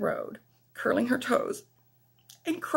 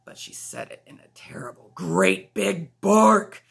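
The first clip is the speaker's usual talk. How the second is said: whisper; 3 semitones lower, 5 dB louder than usual. A narrator's reading. Narrator whispers the bark line.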